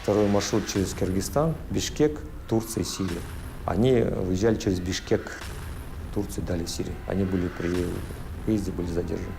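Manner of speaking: disguised voice. Real, not acted. Anonymous witness, voice disguised.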